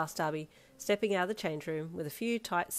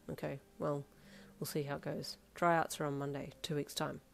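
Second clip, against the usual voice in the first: soft, lower, casual partner voice; laid-back Darby; 3 semitones lower, 5 dB quieter than usual. Acted. Darby talking tryouts with partner, relaxed and soft. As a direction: stay easygoing and low-key.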